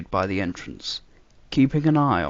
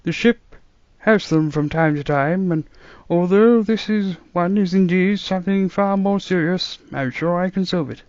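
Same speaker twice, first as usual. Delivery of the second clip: reassuring; 8 semitones higher, 7 dB louder than usual. A narrator's reading. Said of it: "adopt a reassuring tone".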